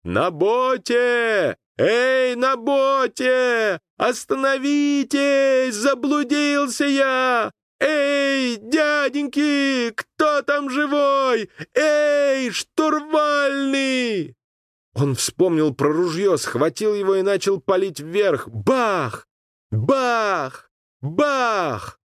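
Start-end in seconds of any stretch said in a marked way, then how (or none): 0.0-14.3 high, slow, drawn-out calls across the water; desperate shout. A narrator's reading. Lost boy calling to the boat, desperate drawn-out shout. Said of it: "отчаянно закричал". 18.5-22.0 sharp high bangs; imitated gunshots. A narrator's reading. Boy firing into the air, sharp bang sounds.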